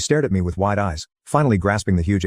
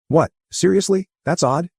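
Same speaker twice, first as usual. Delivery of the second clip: much higher, shocked disbelief; astonished exclaim; 10 semitones higher than usual. A narrator's reading. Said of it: "he exclaimed".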